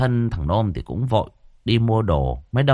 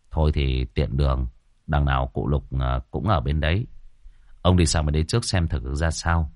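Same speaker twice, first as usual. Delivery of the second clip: much lower, easy and measured; calm young Tẩy; 7 semitones lower, 3 dB quieter than usual. A narrator's reading. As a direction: suggest the plan calmly. Cậu Tẩy voiced.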